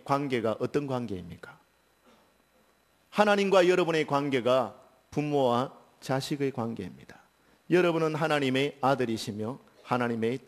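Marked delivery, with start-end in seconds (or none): none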